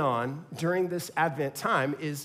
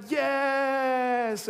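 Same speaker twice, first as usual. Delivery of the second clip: excited shout; 7 semitones higher than usual. Retold or imitated. Kids shout yes.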